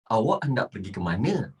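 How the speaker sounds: low, brisk, fully worded formal Malay; formal textbook Malay. Shown as a demonstration. Teacher models asking where you go, properly formal. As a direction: say every word properly, in a low register. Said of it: "you have to speak like this".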